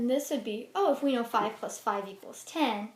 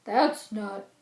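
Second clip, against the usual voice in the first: a higher, louder motherly bear; mama bear voice; 6 semitones higher, 6 dB louder, slower than usual. Acted. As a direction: correct him like a fussy mother bear. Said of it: "says the mama bear".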